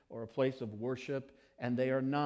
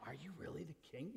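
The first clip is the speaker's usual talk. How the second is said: put-on doubtful kid; 4 semitones higher, 14 dB quieter, faster than usual. Kid doubting king claim.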